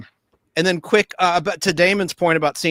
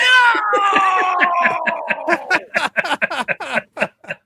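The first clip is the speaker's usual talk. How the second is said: big laugh; 14 semitones higher than usual. Real, not acted. Laughing after the prank story.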